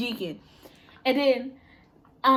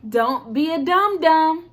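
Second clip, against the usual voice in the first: slow, louder teasing; slow teasing teacher; 3 semitones higher, 5 dB louder, slower than usual. Retold or imitated. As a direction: drag out dum dum to mock. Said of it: "be like".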